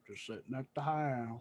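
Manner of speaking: impersonating Southern brother. Retold or imitated. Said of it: "impersonating my brother and his mannerisms".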